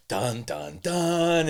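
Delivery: sung-out dramatic "dun dun dun"; movie suspense sting. Retold or imitated. Mimicking the movie moment when the plot thickens, suspense sting. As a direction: mimic a plot-twist music cue. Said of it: "just like in the movies".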